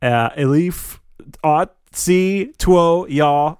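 slow, word-by-word backwards speech. Acted. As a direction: spell out reversed words very slowly. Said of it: "she says each word very slowly".

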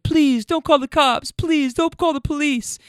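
high, frantic mock begging; panicked pleading. Drunk teen girls beg the server, panicky high plea. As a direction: imitate scared teens begging not to call police.

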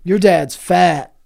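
slow, loud bully jeer; schoolyard taunt. Pretend. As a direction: taunt like a mean kid.

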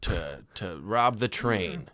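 put-on slow Spanish accent bandit. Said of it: "that's my Spanish accent".

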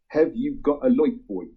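put-on a fond Norfolk accent on a song title. Shown as a demonstration. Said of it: "that was my best Norfolk accent dialect there".

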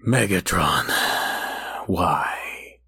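low, slow, weary mock-dramatic plea; slow dramatic overwrought. Mocking the cartoon's voice acting, slow and overwrought. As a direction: drag it out like tired overwrought voice acting. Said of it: "slow and dramatic".

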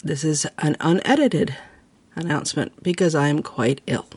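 breathless and ill; struggling for breath while talking; sick voice. Real, not acted. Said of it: "talking like I'm currently talking in my real life".

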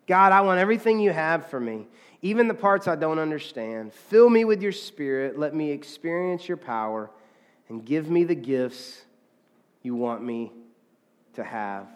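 earnest prayer reading with a lingering close; reading a prayer aloud. Shown as a demonstration. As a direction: read the prayer, easing down at the end. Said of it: "I'm gonna read it to us".

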